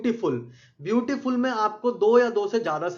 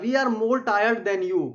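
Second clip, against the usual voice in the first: slow, deliberate reading of an example; slow dictation; much slower than usual. Shown as a demonstration. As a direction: read it word by word for the class. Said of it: "teacher reads example sentence".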